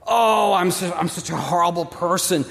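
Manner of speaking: hammed-up self-pity, half-shouted; mock groveling. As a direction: overplay the groveling sinner. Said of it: "They might even grovel".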